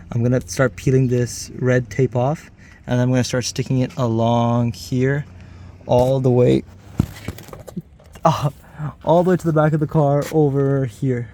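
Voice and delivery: straining while lying under a car. Real, not acted. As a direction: talk while working on your back under a car. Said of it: "it's kinda hard 'cause I'm under the car".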